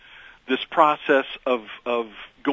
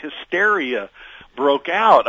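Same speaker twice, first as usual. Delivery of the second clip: excited; 4 semitones higher, 9 dB louder than usual. Real, not acted. Excited retelling of radio moment.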